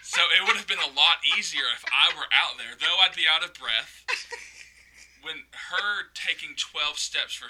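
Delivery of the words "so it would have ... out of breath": talking through laughter, getting louder; amused, laughter breaking into the words; real laughing. Real, not acted. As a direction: tell it while cracking up. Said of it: "whole reason I'm laughing is".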